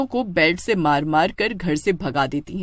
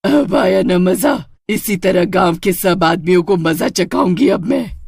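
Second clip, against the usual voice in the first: gloating witch; 4 dB louder than usual. Acted. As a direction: savour the revenge. Witch gloats after beating. (बदले पर खुश चुड़ैल, ऊँची आवाज़ में)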